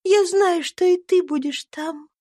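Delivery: put-on gentle little girl blessing her friends; tender cry of a dying girl. A narrator's reading. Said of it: "вскричала она нежно".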